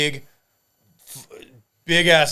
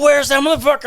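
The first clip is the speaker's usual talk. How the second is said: high-pitched, louder mock demand; retold yelling; 12 semitones higher, 5 dB louder than usual. Wife yelling at the guys outside, mock angry yell. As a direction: imitate an irate wife demanding answers. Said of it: "she starts yelling at us".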